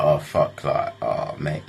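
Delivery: panting, winded words; out of breath. Retold or imitated. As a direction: gasp it out after a sprint. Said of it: "I started to run out of breath".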